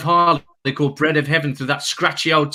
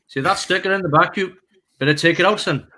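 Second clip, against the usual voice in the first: put-on Welsh accent; 4 semitones higher than usual. Car park attendant warning a Birmingham fan, in a Welsh accent. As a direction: warn him in a lilting Welsh accent. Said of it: "your Welsh accent's better than mine".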